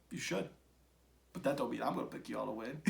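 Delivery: ordinary talk, nothing marked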